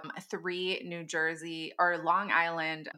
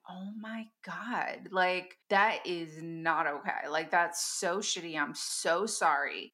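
mock sympathy; slower than usual. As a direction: imitate a friend consoling gently, slowly. Sympathetic reply to bad news.

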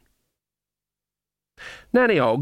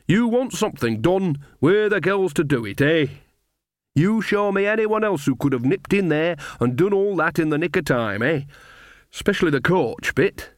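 higher-pitched folksy witch, pleased with herself; cheerful old witch, boasting; 6 semitones higher than usual. Acted. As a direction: crow about the job as a jolly witch.

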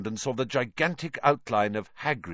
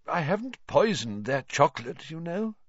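with a small smile; 7 semitones higher than usual. A narrator's reading. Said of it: "with a small smile".

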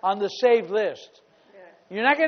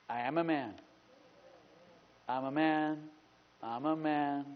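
quiet insistence; 7 semitones lower, 13 dB quieter than usual. Real, not acted. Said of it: "listen close".

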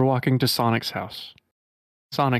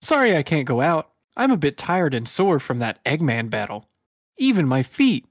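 higher, louder cartoon hedgehog voice; Sonic voice; 4 semitones higher, 5 dB louder than usual. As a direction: sell the tired hero complaint as Sonic. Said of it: "your Sonic voice is just golden".

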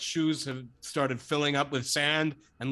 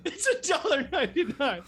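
higher laughing echo; laughing repeat; 9 semitones higher than usual. Real, not acted. Player laughing at the shrimp price, repeating it. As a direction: giggle the price back.

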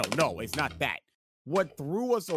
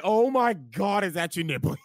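amazed; 3 semitones higher, 4 dB louder than usual. Retold or imitated. Recognizing Nibley, amazed.

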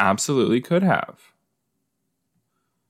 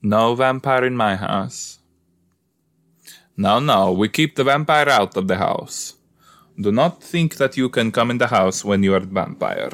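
lightly put-on householder laying down rules; stern vampire-banning householder. Householder refusing to let any vampire in, mock stern.

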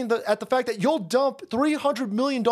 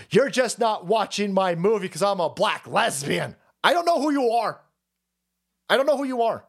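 mocking the director. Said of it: "she's sitting there going".

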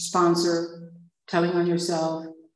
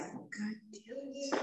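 slow, soft grumbled curse; resigned muttered swear; 6 semitones higher, 17 dB quieter, much slower than usual. Retold or imitated. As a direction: grumble it under your breath. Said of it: "And I was like".

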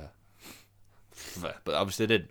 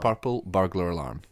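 a slow, light attempt at a Scottish accent. Shown as a demonstration. Friend asked to say the tongue twister, slow and lightly Scottish. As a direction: roll through it in a mild Scottish accent. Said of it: "Can you try and say in a Scottish accent".

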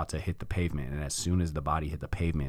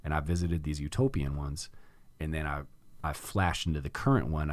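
ordinary delivery

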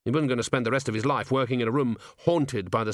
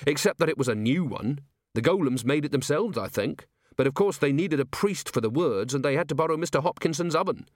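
higher, eager constable voice explaining; earnest young subordinate; 5 semitones higher than usual. Acted. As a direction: report it earnestly to your superior.

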